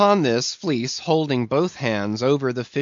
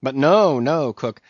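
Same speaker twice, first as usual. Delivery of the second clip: high, emphatic lecturing; needling mate; 7 semitones higher than usual. A narrator's reading. Mate lecturing the cook on heaven, needling. Voices Stubb.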